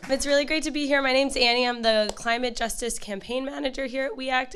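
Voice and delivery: slightly hoarse, strained voice; speaking through a hoarse throat. Real, not acted. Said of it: "I'm a little hoarse".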